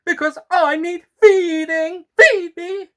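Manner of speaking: high, loud demanding plant creature; hungry flytrap. Acted. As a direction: bark for food like a greedy monster.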